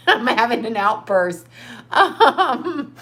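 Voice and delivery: laughing admission. Real, not acted. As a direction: giggle it out. Laughing at herself again.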